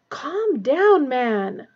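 high, loud bark falling away; barked order. A narrator's reading. Minister telling raving Snape to calm down, barking. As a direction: bark it at him to settle him. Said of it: "Fudge barked".

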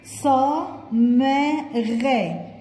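"صا، ما، غا" said as separate, clearly spaced syllables; sounding out syllables. Shown as a demonstration. Teacher spelling "صمغ" out syllable by syllable. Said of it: "صمغ نشتهجاها برضو".

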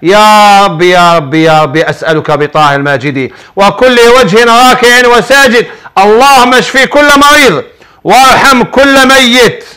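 earnest supplication for the sick, rising in fervor; fervent prayer. Real, not acted. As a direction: pray aloud for every sick person, pleading. (دعاء بخشوع وتضرع)

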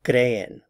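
"Creen" as CRE-en, strong start, falling; teacherly CRE-en for "Creen"; stress on first syllable. Shown as a demonstration. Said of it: "stress on the cre".

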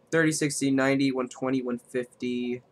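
flat robotic counting. Real, not acted. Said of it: "I sound like a robot right now".

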